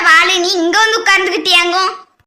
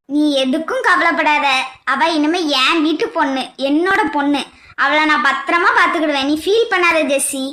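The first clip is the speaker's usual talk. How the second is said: lower, soothing elder's voice; reassuring; 4 semitones lower than usual. Acted. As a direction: comfort her in a lowered voice. Mother-in-law reassures tearful Jessi.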